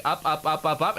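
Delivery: each "up" held lifted, unfinished; going up. Shown as a demonstration. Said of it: "Where you'll be".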